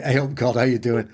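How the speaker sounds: playful Yorkshire hello with a laugh; laughing Yorkshire greeting. Retold or imitated. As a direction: greet God like an old Yorkshire pal, chuckling. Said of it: "everyone knows God's from Yorkshire".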